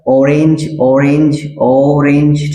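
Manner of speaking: ऑरेंज said clearly, starting on an open vowel; teacher models ऑरेंज to show its vowel start; demonstrating orange. Shown as a demonstration. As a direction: model ऑरेंज carefully three times. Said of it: "यहाँ पे आप sound देखिए कैसा".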